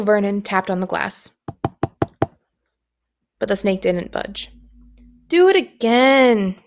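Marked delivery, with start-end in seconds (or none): 5.3-6.6 slow, demanding command; bossy order. Acted. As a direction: beveel het traag als een verwend joch. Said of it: "Dudley ordered".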